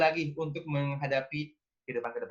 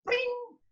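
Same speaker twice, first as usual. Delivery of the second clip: very high sharp pring; imitated plate shatter. Shown as a demonstration. Describing the sound of a plate breaking, very high. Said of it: "gimana istilahnya ya".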